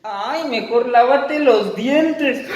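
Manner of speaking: burla lenta entre risas; princesa burlona. Acted. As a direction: se mofa del monstruo. (princesa se burla riendo)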